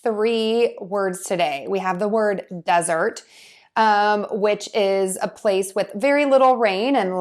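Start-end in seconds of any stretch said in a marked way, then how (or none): 2.6-3.2 "desert" stressed on its first syllable, DEZ-ert. Shown as a demonstration. Teacher introduces the word to learners, first syllable of "desert" stressed. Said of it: "We're going to stress syllable one".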